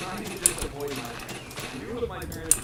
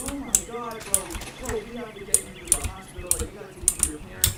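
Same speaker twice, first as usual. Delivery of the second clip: higher, urgent plea to get him help; panicked urging; 5 semitones higher than usual. Retold or imitated. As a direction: rush it out, scared for your friend. Panicked friends urging hospital.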